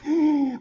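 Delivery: quick high-pitched intake of breath; mock gasp of shock; startled gasp. Moses seeing his diseased hand, startled gasp.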